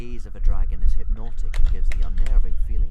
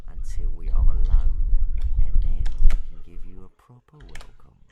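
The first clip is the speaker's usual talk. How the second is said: menacing purr; 4 dB louder than usual. A narrator's reading. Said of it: "purred Hookfang menacingly".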